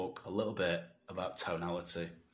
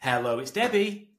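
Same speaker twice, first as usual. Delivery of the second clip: louder, lifted hello; upbeat phone answer; 4 semitones higher, 5 dB louder than usual. Acted. Prospect Debbie answering a cold call, upbeat. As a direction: pick up brightly and eagerly. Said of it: "if someone answered and they were like".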